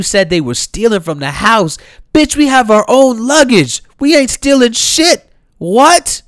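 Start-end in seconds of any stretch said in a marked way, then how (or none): 2.1-6.2 much higher, louder defiant retort; furious high "What?"; indignant outburst. Retold or imitated. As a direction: snap back at the accusation. Voicing the accused girls.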